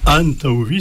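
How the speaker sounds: "antauvi" with a strong AN, vi attached; stress on AN. Shown as a demonstration. Teacher showing what the trick forces, stress on AN. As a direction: punch AN in "antauvi". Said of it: "ça t'oblige à prononcer le an".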